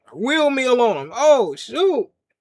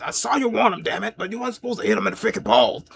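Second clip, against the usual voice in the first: Vince/private; faster than usual. Retold or imitated. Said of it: "Vince, you didn't see me".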